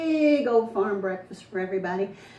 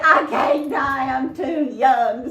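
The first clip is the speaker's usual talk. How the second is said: louder, slow, fearful plea; scared Stevie; 3 semitones higher, 6 dB louder, much slower than usual. Acted. Stevie fears hanging for the killing, pleading. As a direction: plead like a boy afraid to hang. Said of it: "said Stevie".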